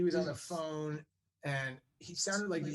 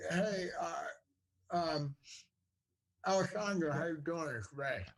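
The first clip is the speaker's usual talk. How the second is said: easygoing phone greeting as Ray Liotta; Ray Liotta impression. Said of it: "Good impression".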